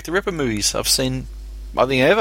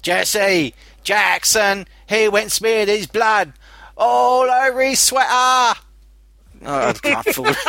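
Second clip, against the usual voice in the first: breaking into laughter; 10 semitones higher, slower than usual. Real, not acted. Cracking up mid-joke.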